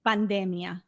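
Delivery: Pandemia said the Spanish way, pan-DEH-mia; Spanish pronunciation. Shown as a demonstration. Asked for the Spanish word, she says Pandemia. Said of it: "how do you say it in Spanish?".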